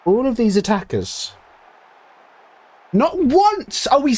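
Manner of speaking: high, slowed, drawn-out exasperation; frustrated rant. Real, not acted. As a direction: plead up high at the absent strikers. Raging at his attackers.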